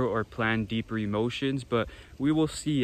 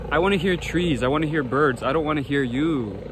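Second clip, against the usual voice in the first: raised voice over the noise; yelling over helicopter; 2 semitones higher, 4 dB louder than usual. Real, not acted. Complaining at circling helicopter.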